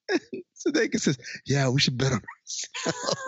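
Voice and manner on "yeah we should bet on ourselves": slow, easily swayed agreement; understated imitation of thoughtful assent; mock careful consideration. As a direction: go along with it slowly, no resistance. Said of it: "saying it with careful consideration".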